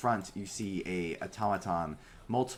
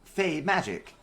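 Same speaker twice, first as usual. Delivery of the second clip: high, loud stuttering robot pitch; small robot vendor, much higher and louder; little robot voice; 5 semitones higher, 7 dB louder than usual. Acted. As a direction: stammer out the pitch like a glitchy bot. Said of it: "just a little robot being like".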